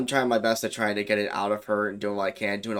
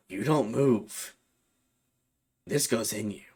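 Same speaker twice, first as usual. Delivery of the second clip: mocking demon; slower than usual. Demon threatening with knife.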